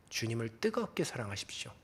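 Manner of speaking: hushed whisper, each word breathed; whispered plea. Acted. Pastor whispers to the congregation, urging them to love God. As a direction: lean in and whisper it to them like a secret.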